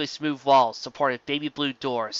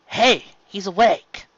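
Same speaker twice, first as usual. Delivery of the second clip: excited call; 7 semitones higher, 7 dB louder, slower than usual. Acted. Calling out that he woke.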